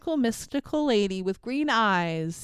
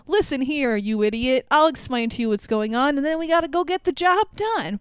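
know-it-all sidekick; 3 semitones higher than usual. Retold or imitated. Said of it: "will be like".

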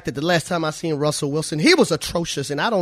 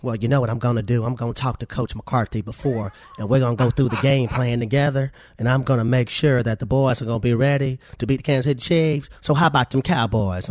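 lightly voiced Jerry impersonation; Jerry impression; 3 semitones lower than usual. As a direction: slip into a mild put-on team-boss voice. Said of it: "Let me get my Jerry voice going".

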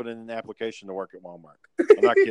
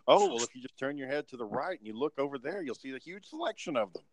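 sarcastic; 3 semitones higher than usual. Retold or imitated. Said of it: "You don't have to be a smart ass".

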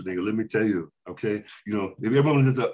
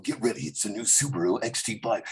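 trailer voice; 3 semitones lower, 4 dB quieter than usual. Shown as a demonstration. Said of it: "I was going".

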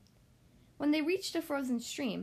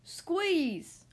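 sharp order; 5 semitones higher than usual. A narrator's reading. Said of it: "ordered Tibbs".

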